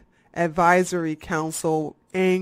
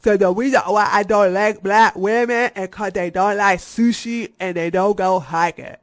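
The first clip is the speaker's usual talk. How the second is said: louder mocking voice of the man; mocking quote; 5 dB louder than usual. Mocking the YouTuber in a louder put-on voice. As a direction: parody him sneering at black women. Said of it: "This nigga talking about some".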